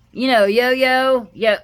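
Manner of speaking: slow, high and loud stretched yo-yo; mock upbeat coworker. Coworker pushing the yo-yo topic, slow and loud. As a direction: drag it out like an overexcited coworker. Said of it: "always kinda upbeat and wired for sound".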